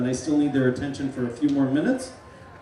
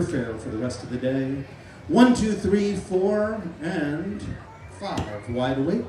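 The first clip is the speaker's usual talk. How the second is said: hypnotist count-up. Acted.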